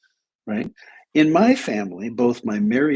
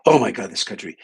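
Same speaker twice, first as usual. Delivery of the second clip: exasperated outburst, imitating an indignant woman; mock exasperation, pushed out louder; 5 dB louder than usual. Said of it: "she said with exasperation in her French accent".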